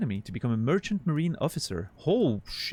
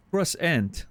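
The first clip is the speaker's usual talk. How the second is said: French croissant; 5 semitones higher than usual. Shown as a demonstration. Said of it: "with a French accent".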